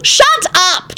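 sudden yelled interruption. A narrator's reading. Timothy on the floor silencing Weezer, yelling. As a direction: cut in with a yell. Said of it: "Timothy yelled from the floor".

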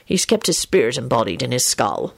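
low, patient explanation. A narrator's reading. Lupin explains the skull to Rosie, patiently. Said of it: "Lupin told her patiently".

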